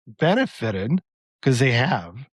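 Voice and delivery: hoarse, voice starting to give out; strained, fading hoarse voice; losing voice. Real, not acted. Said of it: "Sorry, I'm starting to lose my voice".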